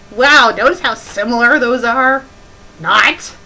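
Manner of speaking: mock the author loudly; sarcastic shout. Real, not acted. Reader loudly mocking the spelling, sarcastic.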